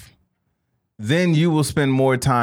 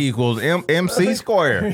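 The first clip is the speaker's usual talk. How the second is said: dumb Southern Einstein. Retold or imitated. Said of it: "anytime you hear someone talk like this".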